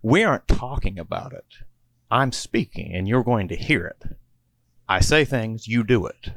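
mild mock-stern leader; tough-guy orders. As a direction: boss them around like the grizzled leader. Tallahassee bossing the group.

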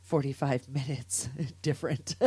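laughing through the words. Real, not acted. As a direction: break into a laugh mid-line. Laughs mid phrase.

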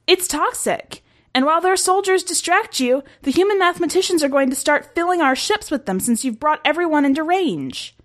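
high, anxious alarm-raising voice; squeaky. A narrator's reading. Soldier warning commander of spreading toxin, squeaky. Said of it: "increasingly squeaky".

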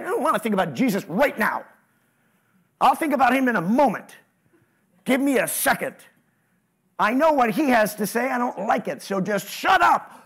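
fast, rising to a mock shout at shut up; irritated brush-off. Voicing a believer who won't listen to Jesus, irritated brush-off. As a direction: wave him off and snap shut up.

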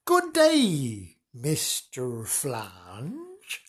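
lightly voiced odd Mister Wonks; Mister Wonks greeting.

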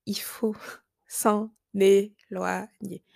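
slow whisper broken by a laugh. Shown as a demonstration. Telling viewers to distance from the neighbourhood, slow giggly whisper. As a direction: breathe it slowly with a giggle.

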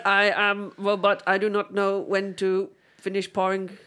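lightly voiced robot; toy robot voice. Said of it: "you're a boring robot person".

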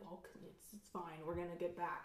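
soft, offhand mock reassurance; too chill. Man calms his panicking companion in the desert, overly chill. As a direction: imitate someone unbothered, voice dropped low in volume. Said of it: "you're way too chill".

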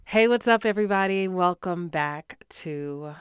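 normal talking voice

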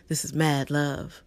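slow This is Mad Love with the weight on Mad; slow, announced Mad Love; show name. Shown as a demonstration. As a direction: draw out Mad Love like an announcer at a poetry night. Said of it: "You gotta say it like".

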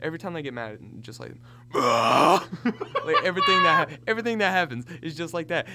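hammed-up anime rage; Dragon Ball Z power-up. Shown as a demonstration. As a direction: mimic an anime fighter getting mad. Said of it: "Let me see if I can do it".

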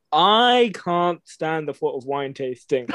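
slow, laughing scoff. Real, not acted. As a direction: laugh it off with disdain. Scoffing at wine tasting, laughing.

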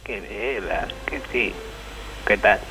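thin, distant phone line sound; bluetooth headset mic. Acted. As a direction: caller heard through a cheap headset. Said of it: "Se escucha rarísimo".

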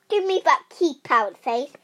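loud demand, starting high; shouting. A narrator's reading. Rosie trying to grab the key, shouting loudly. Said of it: "she shouted".

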